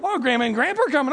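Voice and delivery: lightly voiced parent, rushed; coaxing parent. Parent promising grandparents to a wailing child, rushed coaxing. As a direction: rattle off a quick distraction.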